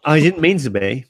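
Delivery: slightly slurred, tipsy speech; words running together after drinks. Real, not acted. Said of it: "You are actually slurring your words".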